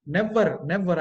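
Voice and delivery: "Never" with a sounded final R; full final R on "never"; Indian-style pronunciation. Shown as a demonstration. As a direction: say "never" as NEV-varr, R tapped. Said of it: "I like that pronunciation".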